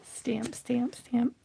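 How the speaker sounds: whispered rhythmic chant. Real, not acted. Crafter pressing the stamp, whispered.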